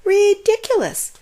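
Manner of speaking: high, loud barked scoff; barking dog. A narrator's reading. Dog scoffing at the tortoise, loud bark. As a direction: bark it out in scorn. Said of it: "barked the dog".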